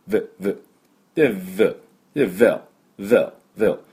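"ブ" as a buzzing "v", later "vel"; short isolated demos of "ブ" as English V; English V sound. Shown as a demonstration. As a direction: repeat "ブ" with lip-and-teeth friction, no B. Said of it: "おみゃーの音にVです".

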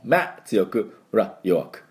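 "マ" strong, "ラ" light and short; stress on MA. Shown as a demonstration. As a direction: hit "マ" then barely touch "ラ".

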